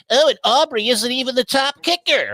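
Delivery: high mock taunt, imitating Joe; mocking rival. Imitating a friend's smug jab at his kicker. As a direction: lightly mimic a smug friend. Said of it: "He made a point a couple of weeks ago of going".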